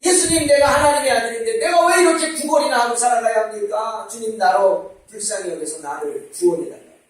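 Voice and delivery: retold cry, easing toward the end; imitated pleading cry. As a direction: act out a beggar calling for mercy. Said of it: "고래고래 소리를 지릅니다".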